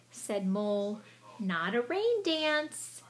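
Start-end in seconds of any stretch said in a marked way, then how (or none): 1.4-3.0 slow denial. Acted. Mole correcting Mouse slowly.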